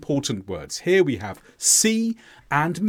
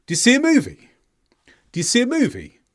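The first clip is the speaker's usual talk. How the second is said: "Do you see a movie?" with the voice climbing through the sentence; rising question intonation; 7 semitones higher, much faster than usual. Shown as a demonstration. Teacher demonstrating question intonation to learners. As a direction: lift the tune up across "Do you see a movie?". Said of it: "my voice generally went up through the statement".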